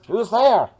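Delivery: muffled, high and loud; muffled through mask. Acted. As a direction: call out from behind a mask. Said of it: "in a muffled voice inside his mask".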